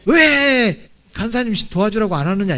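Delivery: mock-annoyed demand with a loud opening WHY; irritated complaint. Congregant grumbling at the pastor for not sending help, irritated. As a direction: act out a grumble, hitting the first word hard. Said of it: "목사님한테 짜증나는 거예요".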